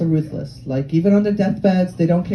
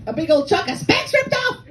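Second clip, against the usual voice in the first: high-pitched astonished cry; high, scandalized exclamation; mock shock; 10 semitones higher than usual. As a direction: exclaim in hammed-up horror. Reenacts shock at Spanx ripping.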